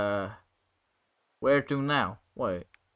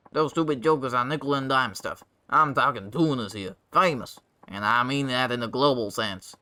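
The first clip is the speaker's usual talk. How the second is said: boastful rascal. Acted. Voices Bacchus bragging.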